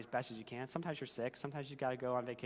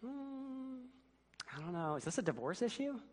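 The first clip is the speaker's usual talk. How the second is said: high, lightly voiced husband dodging the chore; a husband voice, pitched up and put on; lazy husband; 12 semitones higher than usual. Pastor voices the husband answering his wife in a high put-on voice.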